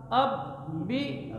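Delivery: very slow, drawn-out syllables. Shown as a demonstration. Teacher sounding out syllables slowly for pupils. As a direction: stretch each syllable out slowly. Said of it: "teacher sounds out syllables".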